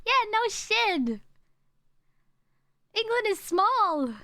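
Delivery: sarcastic. Real, not acted. Sarcastic agreement about England.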